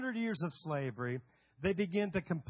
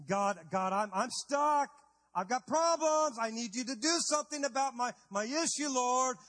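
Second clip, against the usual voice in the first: higher, mock-desperate plea; pleading prayer; 3 semitones higher than usual. Believers begging God to act, lightly mocking plea. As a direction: beg God to fix it.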